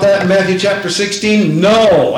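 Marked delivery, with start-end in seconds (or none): 1.6-2.2 a firm, punched No; emphatic no. Shown as a demonstration. Preacher answering Peter with an emphatic no. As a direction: hit the No hard and final. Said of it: "emphatic no".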